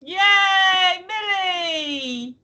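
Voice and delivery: high, loud and delighted hello to the dog; excited dog greeting. Real, not acted. Owner greets the family dog Millie with a delighted shout. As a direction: squeal a welcome to the pup.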